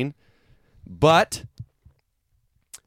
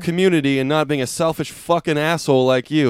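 sarcastic. Retold or imitated. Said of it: "in the sarcastic t-, way".

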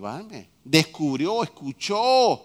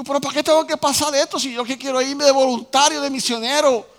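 imitating his old complaint; 8 semitones higher, 7 dB louder than usual.

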